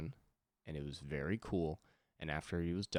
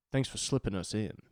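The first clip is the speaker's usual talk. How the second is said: higher, lightly voiced cool-guy thanks; imitating a musician; 4 semitones higher, 4 dB louder than usual. Musician leaving the talk show, imitated cool-guy thanks. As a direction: quote the cool musician, a little raised. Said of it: "he said a very cool guy thing".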